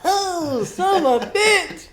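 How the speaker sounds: very high, loud, slow squealing curse; girly squeal. Retold or imitated. Wasp stings him in the armpit, squealing curse. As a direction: squeal it like a startled girl. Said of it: "sounding like a girl squealing".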